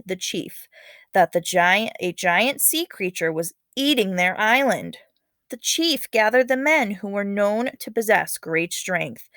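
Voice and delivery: lively read-aloud storytelling voice; story narration. Acted. Teacher reading a legend to her class, dramatic storytelling.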